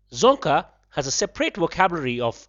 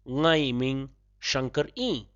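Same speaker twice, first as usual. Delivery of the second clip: a little slowly; 3 dB quieter, slower than usual. Shown as a demonstration. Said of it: "A little slowly".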